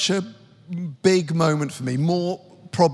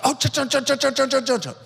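mock sing-song call, much higher; calling across a room; 8 semitones higher, faster than usual. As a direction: hail someone over a crowded room. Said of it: "he goes, like, waves, go".

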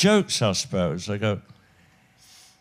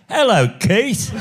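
parrot voice; 11 semitones higher, 4 dB louder, slower than usual. Acted. Parrot punchline, high slow.

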